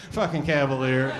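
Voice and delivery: echoing an audience member's disdain for his own car; imitating disdain. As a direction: spit the car's name out with mock contempt. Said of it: "You said it with such disdain".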